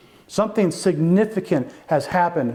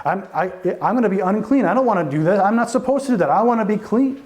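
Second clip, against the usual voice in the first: Peter protesting; 3 semitones higher, faster than usual. Acted. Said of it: "now Peter's saying".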